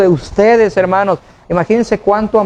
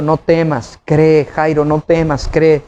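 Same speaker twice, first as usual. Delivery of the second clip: calm reassurance; 2 semitones lower, slower than usual. Retold or imitated.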